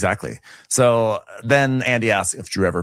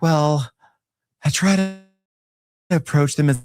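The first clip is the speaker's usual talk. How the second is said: mocking Shamia; 8 semitones higher than usual. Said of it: "Shamia's like".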